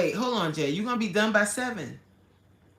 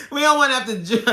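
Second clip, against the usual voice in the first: words broken by laughter, higher and louder; laughing while talking; 7 semitones higher, 8 dB louder, much faster than usual. Real, not acted. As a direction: keep laughing as you try to speak. Laughing through the line.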